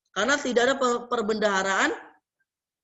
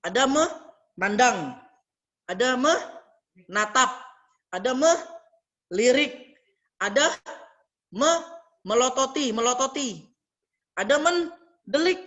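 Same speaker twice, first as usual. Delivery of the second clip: slow listing; 2 semitones higher, slower than usual. Shown as a demonstration. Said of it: "Apa diksi melihat selain melihat".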